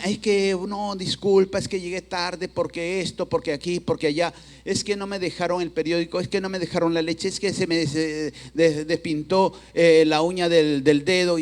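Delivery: making excuses. Acted. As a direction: imitate someone piling up feeble justifications. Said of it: "comenzamos a buscar excusas y justificaciones".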